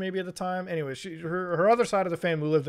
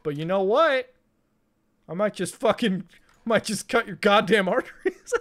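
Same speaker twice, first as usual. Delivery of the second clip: dad's mock threat; 4 semitones higher, 5 dB louder than usual. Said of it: "my dad's like".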